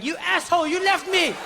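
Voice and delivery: high-pitched mock child tantrum; outraged kid. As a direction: accuse in a high, put-on kid's voice. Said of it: "this kid was like".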